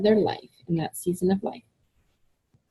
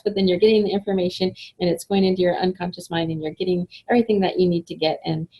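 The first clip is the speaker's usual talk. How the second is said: quick, run-on explanation; talking fast; faster than usual. Real, not acted. Explaining sped-up videos to webinar viewers, talking fast. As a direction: rattle it off at a fast clip. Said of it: "but I'll slow down".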